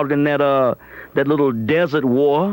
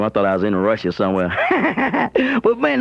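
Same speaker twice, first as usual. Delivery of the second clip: ordinary talk, nothing marked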